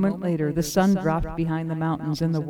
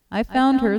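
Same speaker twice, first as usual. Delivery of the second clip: higher, louder happy call; 7 semitones higher, 5 dB louder than usual. A narrator's reading. The shepherd calls to his sons, loud and glad. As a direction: call across to the boys. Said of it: "the shepherd called to his sons".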